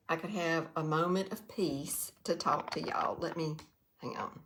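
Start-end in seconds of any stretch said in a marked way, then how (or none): 3.2-4.4 quick whispered aside. Real, not acted. To herself while fixing the comments, whispered. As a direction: drop to a whisper, just for yourself.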